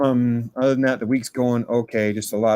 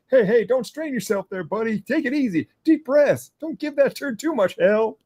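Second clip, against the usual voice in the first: much higher, hammed-up cheering voice; mock encouragement from a toilet neighbor, pitched way up; Tom Arnold impression; 13 semitones higher than usual. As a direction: cheer on the guy in the next stall. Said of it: "He's like".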